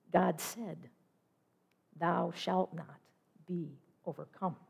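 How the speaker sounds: slow, hushed reading of a promise; solemn quotation. Acted. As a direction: let each phrase sink in softly, with long pauses. Solemn reading of quoted divine promise.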